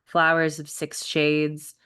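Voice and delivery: even-pitched recital with spacious pauses; poetry reading. Acted. Poet reading a spring field log, measured recital. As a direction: let each short image stand alone. Poet reads second poem.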